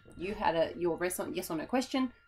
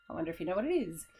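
teacher voice; faster than usual. Shown as a demonstration. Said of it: "That's my teacher voice".

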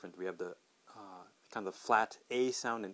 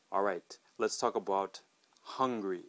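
ordinary talk, nothing marked

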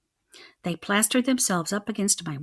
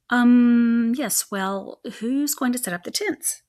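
nervous hesitant stammer; 3 semitones higher, 4 dB louder, slower than usual. Acted. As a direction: stumble over the words. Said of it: "I stammered".

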